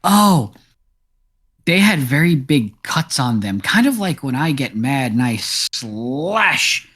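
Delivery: lightly voiced farm cat, chatty and a bit rambling; a hint of a small cat telling its troubles; talking cat. Game master voicing the farm cat for the party, lightly voiced.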